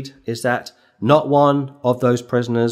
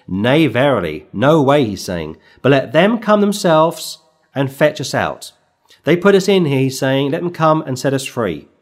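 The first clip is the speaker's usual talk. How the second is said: louder, defiant voicing of Paul; angry Paul; 3 dB louder than usual. Preacher voicing Paul defying the magistrates, angry and loud. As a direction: demand they come fetch you, indignant. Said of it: "There's a level of anger there".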